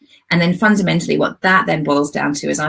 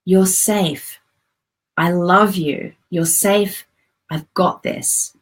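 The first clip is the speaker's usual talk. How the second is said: reassuring, tender; slower than usual. Shown as a demonstration. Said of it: "needs to know that she's safe".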